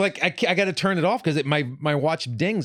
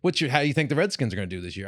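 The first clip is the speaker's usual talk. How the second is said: mock small talk; 3 semitones higher, faster than usual. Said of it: "I didn't go".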